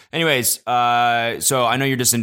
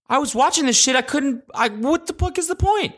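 high-pitched incredulous rant; exasperated. Real, not acted. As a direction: squeal it out in baffled frustration. Exasperated rant about whispered videos.

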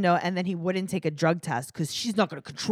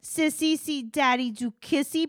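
very high, loud cooed question; exaggerated mock toddler talk; baby talk; 9 semitones higher, 5 dB louder than usual. Imitating her asking the child, exaggerated high baby talk. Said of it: "like, to a baby".

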